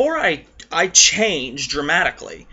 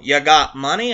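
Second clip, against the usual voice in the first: a self-admittedly bad Irish accent, a bit louder; 4 dB louder than usual. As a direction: imitate an Irish barman badly, ending on a rise.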